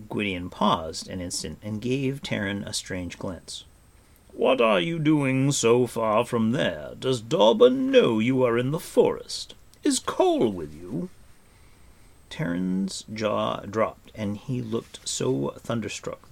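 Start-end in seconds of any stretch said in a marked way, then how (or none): 4.3-11.1 loud, high, insistent questions; urgent questioning. A narrator's reading. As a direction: fire off concerned questions at full voice. Gwydion urgently questions the startled boy.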